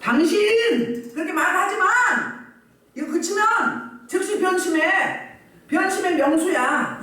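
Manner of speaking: slow, high-pitched accusation; acted rebuke. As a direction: call him out, drawing each phrase out. Acts out Moses rebuking Pharaoh.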